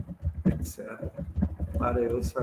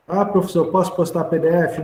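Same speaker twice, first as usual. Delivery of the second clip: high, loud pleading student; 3 semitones higher, 5 dB louder than usual. Acted. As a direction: ask like an eager student. Teacher voicing a student.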